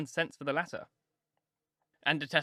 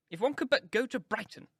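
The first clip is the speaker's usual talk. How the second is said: wistful mother; 9 semitones higher than usual. A narrator's reading. Mrs Bennet wishes aloud.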